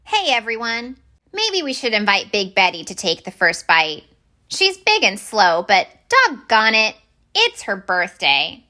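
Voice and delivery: rally the school for a birthday treat; cheerful little minnow. Acted. Minnow inviting the school to honor Big Betty, chirpy voice.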